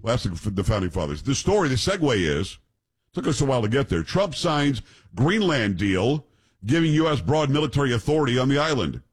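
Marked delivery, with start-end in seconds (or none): 4.0-9.0 reading a headline aloud; news read. Acted. Reads out a news story.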